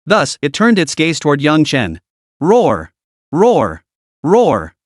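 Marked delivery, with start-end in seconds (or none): 2.4-4.7 three short roaring blasts from a beast; furious roar. Acted. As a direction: roar like a cornered two-headed snake. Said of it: "roared furiously".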